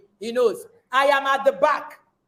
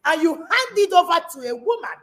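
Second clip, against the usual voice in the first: indignant. Acted. Indignant preaching against men.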